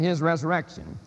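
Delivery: "his" stressed in "his resurrection"; stress on the supplied word. Shown as a demonstration. Lecturer listing supplied pronouns, "his" stressed. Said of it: "just to emphasize the word".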